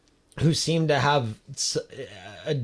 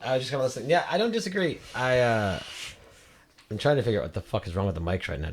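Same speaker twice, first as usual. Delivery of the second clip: echoey mic, like a big hall; faster than usual. Real, not acted. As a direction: voice ringing in an echoing room. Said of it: "I sound echoey".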